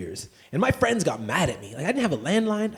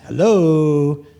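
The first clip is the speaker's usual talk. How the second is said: pissy hello; 8 dB louder than usual. Acted. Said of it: "with, like, a thousand O's".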